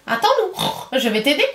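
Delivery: high, sly piglet; the pig sweetly offering the wolf help; little pig teasing. Acted. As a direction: pretend to help the stuck wolf. Pig mocks trapped wolf.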